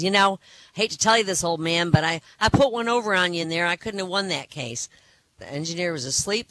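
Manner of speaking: lightly acted smug young lawyer; gloating. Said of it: "couldn't resist gloating over his success".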